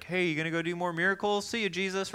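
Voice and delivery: high, quick taunting voice; a mocking little brother jeering. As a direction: tease him like a snide sibling. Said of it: "James makes fun of Jesus".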